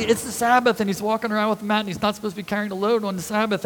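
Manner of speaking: high, rushed voice of objection; mock upset. Critics objecting to the mat on the Sabbath, mock upset. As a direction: imitate indignant sticklers tattling in a hurry. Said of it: "they're all upset about that".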